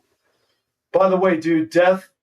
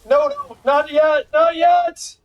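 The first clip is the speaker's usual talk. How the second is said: higher, rising into a shout; panicked shout; 6 semitones higher than usual. Real, not acted. To himself as a card goes wrong, rising panicked shout. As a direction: yell to stop the misplay. Misplay happening, calling out.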